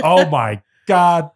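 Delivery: slow, loud, high groan; drawn-out groan. Real, not acted. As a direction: draw out the disbelief. Groaning at pun.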